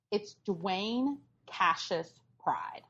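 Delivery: slow hushed whisper, savouring the reveal; dramatic whisper. Acted. Revealing the character's name to her co-host in a slow whisper. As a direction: breathe the name out slowly like a secret.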